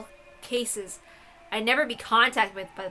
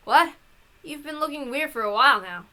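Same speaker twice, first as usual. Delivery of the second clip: surprised; 5 semitones higher, 4 dB louder than usual. Acted. Startled reply to odd question.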